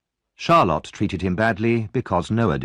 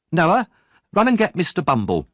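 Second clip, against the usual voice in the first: urgent order; 8 semitones higher than usual. Acted.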